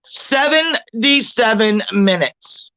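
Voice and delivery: slow, heavy Seventy-seven minutes; said slowly. Shown as a demonstration. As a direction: let the number sink in. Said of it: "I'm gonna say this slowly".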